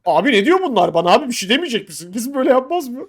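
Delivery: protesting, put-on helpless appeal; imitated plea for help. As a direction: mimic a friend appealing to an ally. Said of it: "diye yardım isteyecek".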